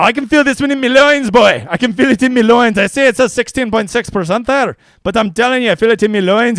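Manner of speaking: put-on Scottish accent. Hyping Tony Finau to the stream in a mock Scottish accent. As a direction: put on a jokey Scottish brogue. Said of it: "It's not a bad Scottish accent".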